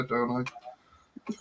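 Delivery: whispered don't I; whispered aside. Real, not acted. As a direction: breathe it as a spooky joke. Jokes he looks like a spectre.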